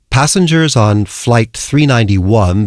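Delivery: slow, measured airport announcer; airport announcement. Acted. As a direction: announce a flight over the airport tannoy. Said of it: "like making an announcement in an airport".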